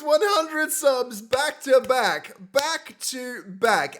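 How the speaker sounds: slow, emphatic. Real, not acted. Savoring the moment, slowing.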